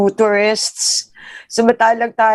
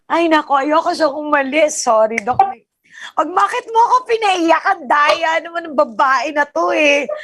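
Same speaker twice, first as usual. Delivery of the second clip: teary; 4 semitones higher than usual. Real, not acted. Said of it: "Sorry, naiyak ako".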